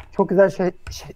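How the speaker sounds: words catching in the throat; choking on a drink. Real, not acted. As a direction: speak as a sip goes down wrong. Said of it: "Boğazıma kaçtı ya".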